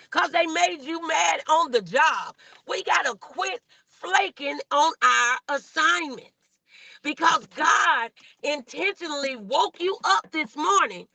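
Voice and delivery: rising preacher's exhortation with shouted peaks; preaching. Acted. Preaching to viewers in live chat.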